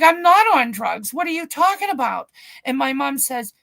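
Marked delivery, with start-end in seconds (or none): 0.0-2.3 high, loud mock protest; indignant retold denial. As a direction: act out outraged disbelief at the accusation. Retold denial of drug accusation.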